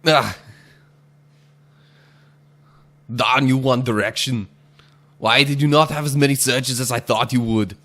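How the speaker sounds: loud hammed-up Indian accent; lightly put-on Indian accent. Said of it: "that last one was my attempt at doing, like, an Indian accent".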